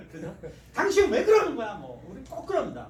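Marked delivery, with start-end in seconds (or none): 0.7-1.7 high, loud half-laughing scold; mock a spouse yelling, laughing; hammed-up angry outburst; angry shout through a laugh. Acted quarrel with spouse.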